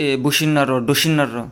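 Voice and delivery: ডসিন্নার র as the common slip; wrong reading. Shown as a demonstration. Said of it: "এটা অনেকে বলে".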